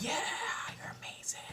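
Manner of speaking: mock cheering. Imagined gushing reply, acted softly.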